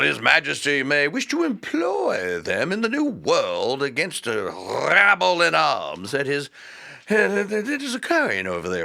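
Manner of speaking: mocking King George wheedling Frederick in an English accent. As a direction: ham up a posh English monarch. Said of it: "sending letters going like".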